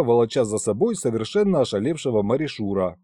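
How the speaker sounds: plain reading voice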